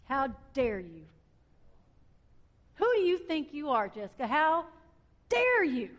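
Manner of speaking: lightly voiced rebuke from above, rising on how dare you; God scolding. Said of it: "I'm gonna tell y'all exactly what he said".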